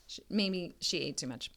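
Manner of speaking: hushed whispered aside; soft unvoiced aside. Real, not acted. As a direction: lean in and whisper it.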